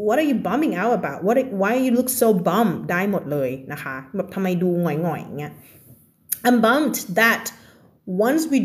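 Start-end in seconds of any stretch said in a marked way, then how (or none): 0.1-2.8 slow example. Shown as a demonstration. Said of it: "เราก็ถามได้ว่า".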